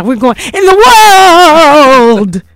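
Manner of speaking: slow, menacing villain voice; evil voice. Pretend. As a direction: drag it out like a villain, then laugh. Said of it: "In my evil voice".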